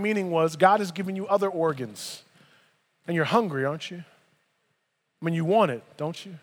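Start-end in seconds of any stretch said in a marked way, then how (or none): 3.1-6.3 teasing whisper. Pretend. Teasing voicing of desire.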